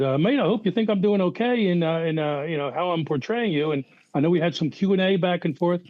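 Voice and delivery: lightly attempted Aussie accent; Australian accent. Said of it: "into his, uh, native vernacular".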